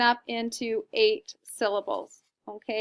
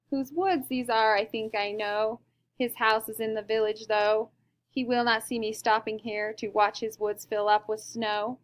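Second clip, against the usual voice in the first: poem reading. Shown as a demonstration. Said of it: "when we read it out loud, you can hear that beat".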